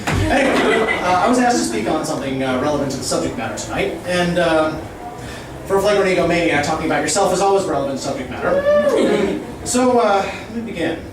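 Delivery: rapid absurd wordplay rant, building; escalating comedy rant. Acted. Roast-style free-association rant.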